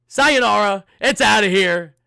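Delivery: big booming broadcaster call; home run call. Retold or imitated. Streamer mimicking the broadcaster's home run call, booming. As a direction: bellow it like the TV announcer.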